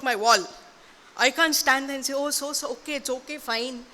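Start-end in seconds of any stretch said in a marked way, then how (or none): 2.1-3.9 softly placating, as if letting it go; feigned mild acceptance; mock meek forgiveness. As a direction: back down quietly in an acted quote. Acts out letting neighbor off.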